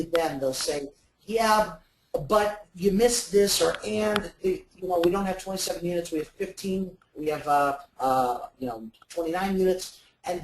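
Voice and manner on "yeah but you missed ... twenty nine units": a customer quickly correcting, higher and louder; a client eagerly putting the facts right; a customer's correction, pitched up and louder. Retold or imitated.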